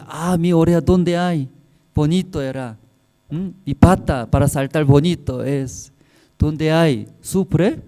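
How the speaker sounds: voz de conejo más aguda, quejándose de lo perdido; conejo que se lamenta. Acted. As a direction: lamenta su oreja y sus patas como un conejito triste. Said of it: "Entonces el conejo dice". (el conejo se queja ante los hermanos, voz más aguda y dolida)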